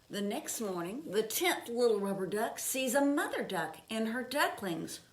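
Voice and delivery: put-on gentle read-aloud pace for children; storybook reading. A narrator's reading. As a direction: read it like a picture book at bedtime. Reading picture book aloud.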